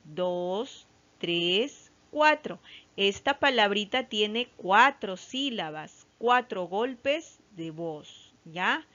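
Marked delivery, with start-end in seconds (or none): 0.0-2.6 counting syllables slowly. Shown as a demonstration. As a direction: clap out the syllables for kids.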